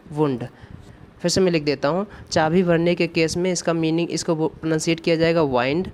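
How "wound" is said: "वुंड" said with an oo sound, like voond; pronounce wound. Shown as a demonstration. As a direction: say "वुंड" as the word for a sore, long oo. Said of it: "W यू E N D". ("वुंड" को ऊ की आवाज़ के साथ बोलें)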